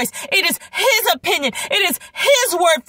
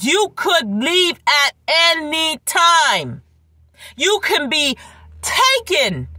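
high and slow proclaiming; preaching shout; 3 semitones higher, slower than usual. Acted. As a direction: call it out slowly, raised.

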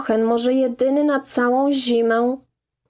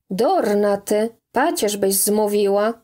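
plain reading voice

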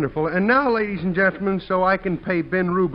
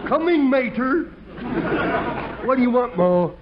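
Clem the bumpkin; 5 semitones higher than usual. Acted. Clem the dim fireman talking to the audience, goofy and cheerful. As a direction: play a goofy rube pleased with himself.

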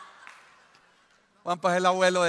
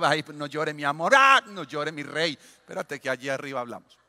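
smiling coax; 3 semitones lower than usual. Retold or imitated. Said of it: "se lo lleva así sonriendo".

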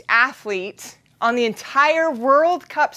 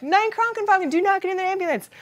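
higher, quick mock warning shout; mock coach warning; 6 semitones higher than usual. Coach on the side warning her not to get in the ambulance, higher and quick. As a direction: call it out like a coach across the track. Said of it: "Chris is over there on the side".

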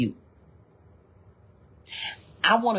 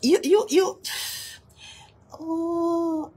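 excited cry; 11 semitones higher, slower than usual. Real, not acted. Preacher calls out to congregation.

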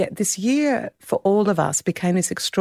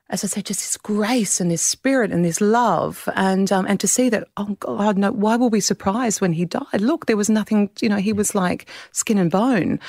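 real tears, voice raised higher and strained; tearful; 3 semitones higher than usual. Real, not acted. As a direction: speak through tears about her dad.

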